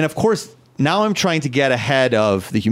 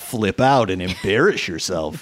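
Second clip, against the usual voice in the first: mock inner voice; 3 semitones lower than usual. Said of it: "You got a little attitude".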